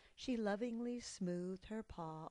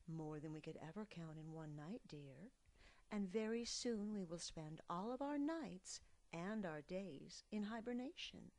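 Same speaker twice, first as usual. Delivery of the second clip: mother bear. Acted. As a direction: soothe the little one.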